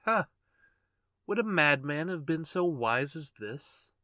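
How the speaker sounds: loud, high gloating question; gloating triumph. A narrator's reading. Madman boasting to the listener, loud gloating. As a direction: crow over your own cleverness.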